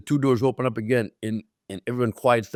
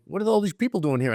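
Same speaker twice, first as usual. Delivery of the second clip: higher-pitched puzzled question; retold bafflement; 6 semitones higher than usual. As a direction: act out mild confusion at the crowd. Baffled by crowds at gates.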